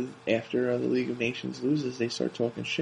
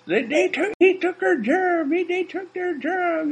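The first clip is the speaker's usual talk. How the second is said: high, slow put-on yokel voice; mock Southern fan; 3 dB louder, slower than usual. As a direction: play a worked-up rural fan. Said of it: "You know, like, it's".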